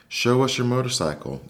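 high little mouse voices; squeaky voice. A narrator's reading. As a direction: squeak like eager little kids. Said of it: "they squeaked".

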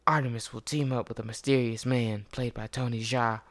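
movie trailer voice. Acted. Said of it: "let me get my movie trailer voice".

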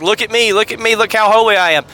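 showing off holiness, mock proud; imitating a showy holy man; mock pious boast. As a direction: preen like a hypocrite.

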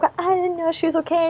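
high, small-voiced kid defence; lightly acted plaintive excuse; retold protest. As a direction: imitate a child protesting softly. Retold childhood argument, own defence.

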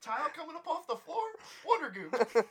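bright, quick sales pitch; home shopping host. Pretend. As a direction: sell it like late-night TV. Mock infomercial pitch.

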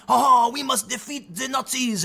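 slow, hammed-up heroic shout; mock-grand call to battle; mocking Antifa. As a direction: play a pompous resistance fighter, mockingly. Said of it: "And they're like".

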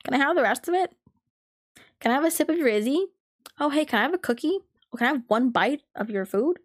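freeloader's asking. Retold or imitated. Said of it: "I would freeload off of".

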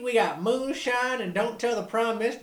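proud hick sales pitch; Canadian yokel. Retold or imitated.

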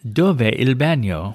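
slow careful Italian, Dove il bagno said dov-eh il ban-yo; Italian phrase. Shown as a demonstration. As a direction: sound out Dove il bagno slowly, Italian style. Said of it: "And that is?".

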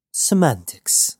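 slow, amused and a little smug; grinning. Acted. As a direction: let the grin be heard, lightly. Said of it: "Knox grinned".

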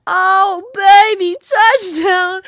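high, full-voiced imitated fan yell; touchdown cheer. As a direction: holler like a rowdy fan celebrating.

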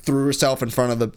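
usual speaking voice

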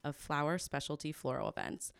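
polished host introduction; smooth scripted welcome; podcast intro read. Acted. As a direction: introduce the guest to listeners.

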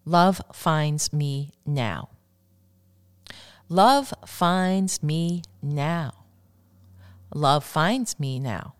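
very slow, deliberate repeated affirmation. Shown as a demonstration. Host guiding listeners through affirmations, very slow and deliberate. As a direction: stretch each word, let it sink in. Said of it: "The third affirmation I'd like to share".

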